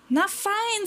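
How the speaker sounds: high-pitched, lightly voiced little pirate; little pirate agreeing. A narrator's reading. Little pirate accepting his new crew, agreeing. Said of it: "sagte der kleine Pirat".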